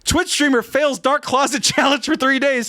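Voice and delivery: lightly imitated online news host; mock headline-reading host voice; Philip DeFranco. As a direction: read it like a news show opener. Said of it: "I'm Philip DeFranco, you beautiful bastards".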